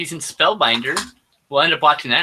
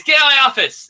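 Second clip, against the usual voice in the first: mock furious yell, pitched up; imitating the chief yelling; 9 semitones higher, 5 dB louder, faster than usual. Chief kicking cops out of his office, mock yell. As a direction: throw them out like an angry chief. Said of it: "and he goes".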